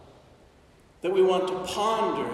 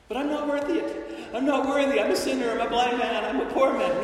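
pleading beggar; 4 semitones higher, much faster than usual. Acted. Beggar protesting to Jesus.

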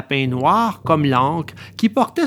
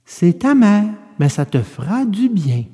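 gently firm fairy, slightly higher; 4 semitones higher than usual. Acted. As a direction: coax the puppet kindly but firmly. Fairy answers the puppet. (voix de fée douce mais ferme)

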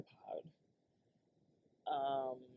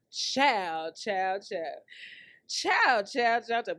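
exclaiming; 3 semitones higher, 4 dB louder, much slower than usual. Real, not acted. Exclaiming child repeatedly.

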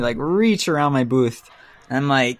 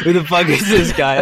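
louder, higher irritated outburst; annoyed; 5 semitones higher, 5 dB louder than usual. Retold or imitated. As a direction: snap it in your head. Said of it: "in my head, I'm like".

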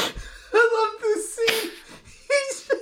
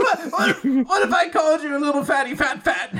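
fast mock taunt; 5 semitones lower, faster than usual. Bully taunting Boruto.

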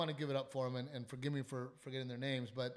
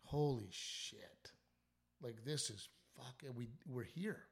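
stunned hush; 6 dB quieter, slower than usual. Retold or imitated. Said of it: "it was just like".

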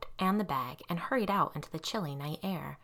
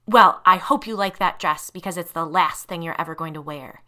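louder, cold and deliberate; menacing threat; 8 dB louder than usual. Acted. Tanya threatening Lisa in the speeding car, menacing. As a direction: promise her doom with relish.

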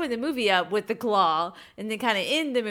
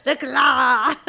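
Jerry; 4 semitones higher, 5 dB louder than usual. Retold or imitated. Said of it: "his version of The Claw".

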